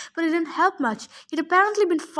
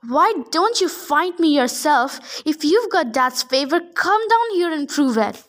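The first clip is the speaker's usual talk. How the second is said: defiant challenge; 4 dB louder than usual. Acted. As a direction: call him down to fight. Hero challenges giant.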